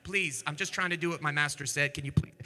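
a scared soldier pleading quietly. Retold or imitated. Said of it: "the third soldier comes up and he says".

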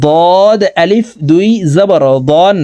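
slow "দদ" with a thick emphatic D; heavy Dad. Shown as a demonstration. Teacher demonstrates a heavy letter, thick emphatic pronunciation. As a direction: make "দন" full and heavy, drawn out. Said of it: "মোটাভাবে উচ্চারণ করে পড়িতে হয়".

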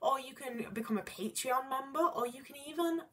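goblin voice. Pretend. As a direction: play a scheming little goblin asking for cash. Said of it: "That's my goblin voice".

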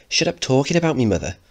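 put-on sudden high outburst from a teenage boy; angry teen Mickey. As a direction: snap back at mother, pitched high. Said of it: "Mickey speaking".

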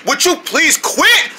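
drawn-out high plea; slow pleading. Acted. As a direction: beg them slowly to quit. Pleading to stop bouncing.

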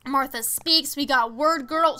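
excited gushing with punched openings; real fan excitement; really excited. Real, not acted. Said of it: "you made me really excited".

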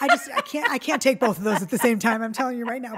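real overwhelmed exclamation, voice jumping up loud; overwhelmed outburst. Real, not acted. Overwhelmed by client story and covid.

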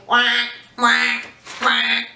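big ducks hanging back; big duck quacks. Shown as a demonstration.

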